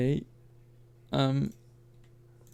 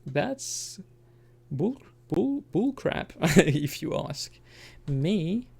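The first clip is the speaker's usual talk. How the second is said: put-on English accent; 3 semitones higher, 3 dB louder, slower than usual. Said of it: "I don't know why I took an English accent there".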